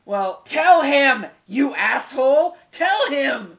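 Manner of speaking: high, loud, drawn-out yell; exasperated shouting. Acted. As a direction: holler at the character in mock fury. Yelling at the character.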